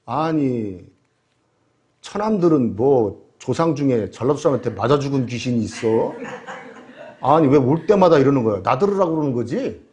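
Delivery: low, muttered complaint on the drive home; lightly voiced husband grumbling to himself. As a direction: grumble it under your breath like a sulking husband. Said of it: "투덜투덜대면서".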